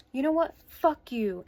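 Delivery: a hammed-up flip from sorry to furious; mock angry outburst. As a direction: throw it back at her like she did. Girlfriend's outburst retold.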